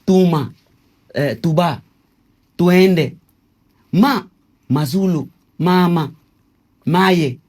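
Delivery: each word spaced and called out, "tuma", "tuende", "mama" loud and high; syllable demo. Shown as a demonstration. King teaching interviewer Kikongo syllables, loud and spaced. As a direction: announce the Kikongo syllable words one by one. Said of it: "Formou a palavra".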